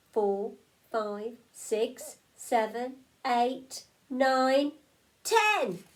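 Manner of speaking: excited counting. A narrator's reading.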